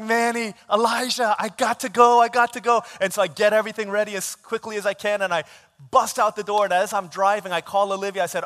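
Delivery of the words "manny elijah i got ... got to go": high, loud and urgent; retold panic, rushing to leave; frantic. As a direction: call out as if badly late. Retold frantic rush to the kids.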